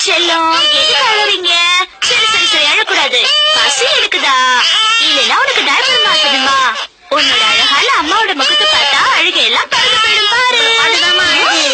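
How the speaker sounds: put-on cooing sing-song to a crying baby; baby talk. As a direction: soothe the little one in a baby voice. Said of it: "குழந்தைகிட்ட எப்படி பேசுறீங்களோ". (குழந்தையிடம் கொஞ்சும் குரல்)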